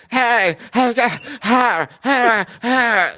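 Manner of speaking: high, raspy hey hey hey cartoon yelp; Tan Mom impression mixed with Underdog. Comedian showing his Tan Mom bit to the radio host, high cartoon yelp. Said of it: "a mix of Underdog and Tan Mom".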